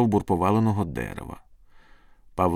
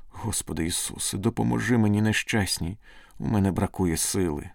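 pleading prayer. Acted. Wretched girl praying for strength, subdued pleading. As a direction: plead for help, understated and weakening. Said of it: "благала дівчина".

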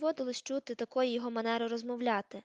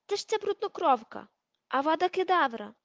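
much higher, loud hate-filled cry; furious shout; 6 semitones higher, 6 dB louder than usual. A narrator's reading. Crabbe attacking Hermione, a furious scream. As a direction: scream the killing curse.

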